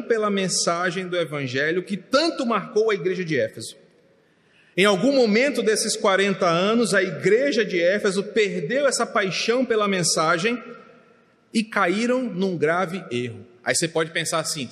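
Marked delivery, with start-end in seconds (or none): 4.8-13.5 louder, emphatic pulpit delivery; pregação enfática. Real, not acted. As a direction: preach it out with force. Preacher raises force. (pregação com voz firme e forte)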